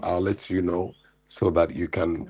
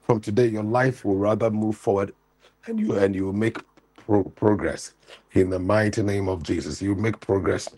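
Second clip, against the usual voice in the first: fervent deliverance prayer, raised pitch; preaching prayer; 3 semitones higher than usual. Acted. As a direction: pray over him with full force. Prays over caller's son.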